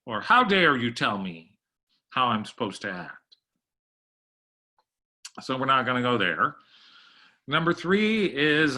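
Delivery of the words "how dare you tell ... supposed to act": mock outrage, falling away at the end; hammed-up offended comeback; indignant retort. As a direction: act affronted, starting emphatic and easing off. Acts out offended person's reply.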